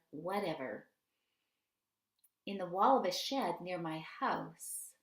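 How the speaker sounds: measured reading from a reflective book; unhurried, carefully phrased passage reading; reading aloud. Acted. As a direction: read it out with deliberate pauses between phrases.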